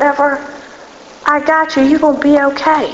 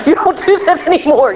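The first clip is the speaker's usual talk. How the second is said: laughing through the words; 4 semitones higher than usual. Real, not acted. Speaker to her NA group, laughing at old habits. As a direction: chuckle as you say it, amused at yourself.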